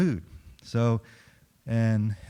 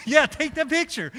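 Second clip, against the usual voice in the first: high, laughing yes, take the picture; laughing insistence; 3 dB louder than usual. Retold or imitated. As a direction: push through your own laughter.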